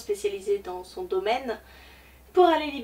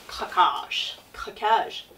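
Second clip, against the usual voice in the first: whisper; much slower than usual. Pretend. Booktuber confessing her splurge, in a whisper. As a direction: whisper the word craquage, unvoiced.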